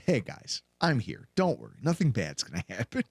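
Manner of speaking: a touch of a soothing dad; reassuring dad. Retold or imitated. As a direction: soothe the kids gently. Dad comforting kids.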